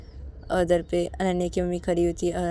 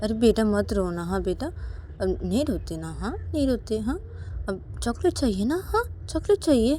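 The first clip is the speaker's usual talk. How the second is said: coaxing mother; 4 semitones higher than usual. Acted. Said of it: "पायल को बोलती कि".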